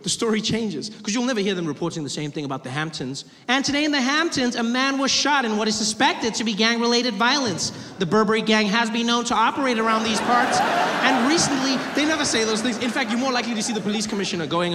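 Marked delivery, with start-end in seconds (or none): 3.5-11.8 louder, hammed-up newsreader; pompous news report; news anchor. News anchor Hamptons parody.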